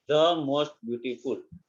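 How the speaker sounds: the most beautiful stretched very slowly; slow dictation. Shown as a demonstration. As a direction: stress each word for students. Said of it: "हो गया superlative में". (बहुत धीरे, खींचकर)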